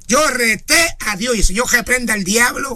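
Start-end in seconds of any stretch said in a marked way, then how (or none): 0.1-1.4 "reté" stretched slowly, with a rolled R; drawn-out mock boast. Preacher repeating a church member's boast to the congregation, drawn out.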